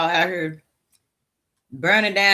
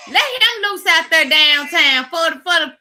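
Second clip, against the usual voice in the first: higher and louder, pushing hard on the words; furious demand; 9 semitones higher, 3 dB louder than usual. Real, not acted. Ranting to viewers about police, furious demand. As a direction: demand it like you're fed up. Angry demand to release him.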